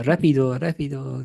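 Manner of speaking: exaggerated Spanish accent with punched O endings; mock Spanish. Host joking about bad Spanish, mock Spanish accent. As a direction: put on a cartoon Spanish accent. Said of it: "like, Spanish, it's just, like, ending everything".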